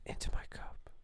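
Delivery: breathy ASMR whisper, close to the mic. Pretend. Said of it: "let's do a asthma".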